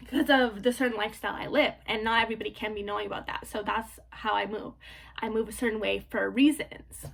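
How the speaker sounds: hoarse, voice giving out; losing voice. Real, not acted. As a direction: talk through a worn-out voice. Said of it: "I'm, like, losing my voice".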